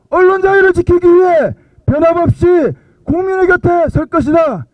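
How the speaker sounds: steady, firm public statement; formal declaration reading. Acted. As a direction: read it like a protest proclamation. Reads the joint declaration aloud. (성명서 낭독하듯)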